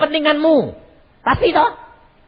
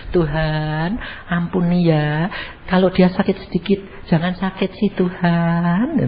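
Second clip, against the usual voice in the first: mock pleading prayer, words drawn out; lightly acted wheedling plea to God; wrong way of praying; 3 dB quieter, slower than usual. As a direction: imitate a soft-hearted wife's prayer. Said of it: "Loh, kamu harusnya begini".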